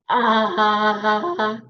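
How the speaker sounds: put-on cracking, wobbly teenage-boy ah; bad ah, like a teenage boy. Shown as a demonstration. Therapist demos a bad ah, teenage-boy crack. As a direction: show the wrong way, like a voice breaking. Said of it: "I'm gonna demo what not so good".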